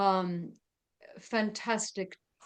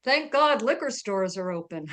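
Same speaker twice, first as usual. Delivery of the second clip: louder heckler's call-out, not a full shout; mild mock yell; retold yell; 6 dB louder than usual. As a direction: call it out from the crowd, slightly hammed-up. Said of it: "someone yells out".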